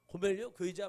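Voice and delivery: lightly acted defiant questioning; talking back. Hosea talking back to God about Gomer, mildly defiant. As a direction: mildly challenge the name you were given. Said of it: "호세아가 대들죠".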